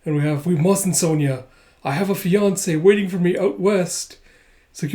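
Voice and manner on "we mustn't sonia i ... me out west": mock-melodramatic lover's protest; a touch of soap opera anguish; lightly hammed-up reluctant lover; soap opera drama. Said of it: "a little soap opera drama".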